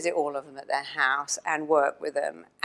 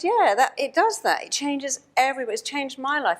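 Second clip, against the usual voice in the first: excited agreement; 6 semitones higher than usual. Retold or imitated. Speaker's excited reply.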